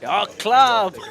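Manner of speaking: high, loud burst; excited exclamation. Real, not acted. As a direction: call it like the card could land. Commentator hoping for club.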